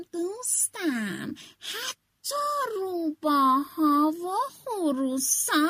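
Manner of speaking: slow, lightly voiced sly fox. Fox reading the new forest law to the rooster, slow and sly. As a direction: coax the rooster like a smooth trickster. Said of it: "کشید و گفت".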